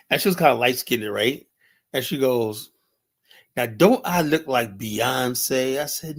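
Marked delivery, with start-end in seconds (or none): 3.6-5.8 drawn-out flirty ask; slow, coy question.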